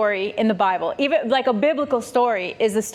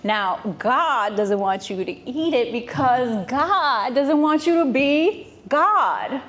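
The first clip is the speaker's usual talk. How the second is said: smooth-talking snake. Retold or imitated. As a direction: sweet-talk her like a sly street flirt. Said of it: "The snake is like".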